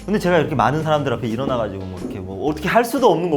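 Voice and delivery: normal talking voice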